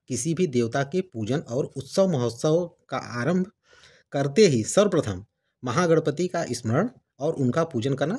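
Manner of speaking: measured reading of a devotional text; formal Hindi scripture-book reading; formal read-aloud. Acted. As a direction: read the preface out clearly, phrase by phrase. Reads book's preface aloud.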